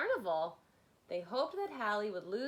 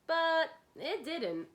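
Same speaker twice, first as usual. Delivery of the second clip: slow, louder, higher "But it didn't"; emphatic punchline; 7 semitones higher, 5 dB louder, slower than usual. Acted. Narrator to kids, stretching the refrain with emphasis. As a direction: land the refrain slowly and boldly.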